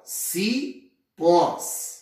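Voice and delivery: "cipós" split as ci, pause, pós; syllable by syllable. Shown as a demonstration. Teacher dividing the plural cipós, syllable by syllable. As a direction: separate "cipós" into two drawn-out syllables. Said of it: "dividimos em sílabas".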